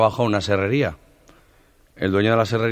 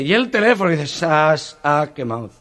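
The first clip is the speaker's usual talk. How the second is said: higher, stammered start; stutterer; 6 semitones higher than usual. Retold or imitated. Stutterer admitting the phone burned, stammering. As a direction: trip on the first word. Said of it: "el tartamudo".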